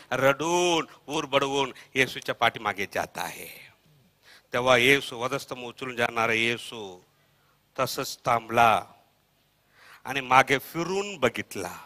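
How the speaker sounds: low, soft, solemn narration; hushed storytelling. A narrator's reading. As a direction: drop the voice and let each pause hang. Hushed retelling of Jesus pausing.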